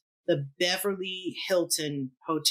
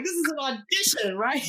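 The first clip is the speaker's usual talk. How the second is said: nervous question; 8 semitones higher than usual. Retold or imitated. Repeats the question, pitched up.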